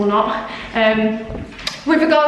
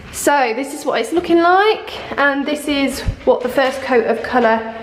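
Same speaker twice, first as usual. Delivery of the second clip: echoey room; 3 semitones higher than usual. Real, not acted. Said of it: "It's really echoey in here".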